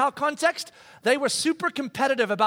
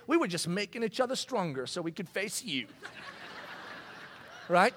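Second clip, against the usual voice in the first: laughing; 2 semitones lower, 7 dB quieter than usual. Real, not acted. Laughing at his own joke.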